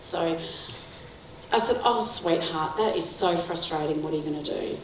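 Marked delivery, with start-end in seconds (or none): 1.8-4.8 soft, gentle mother to her son; a softer, tender reply to a disappointed child; caring tone. Retold or imitated. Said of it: "He could hear it in my tone".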